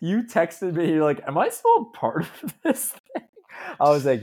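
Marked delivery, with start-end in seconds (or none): 1.2-3.3 squeaky high mock-anxious whine, breaking into a laugh; mock worried friend. Teasing his cohost by quoting his anxious text in a squeaky, laughing voice. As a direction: play him as a needy friend begging to stay in the wedding.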